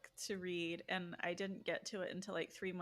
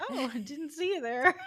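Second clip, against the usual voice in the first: higher, louder mock-surprised greeting; feigned surprise; 7 semitones higher, 8 dB louder than usual. Reader to a handsome stranger in her daydream, feigned surprise. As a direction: play coy, as if caught unawares. Acting out coy reply to stranger.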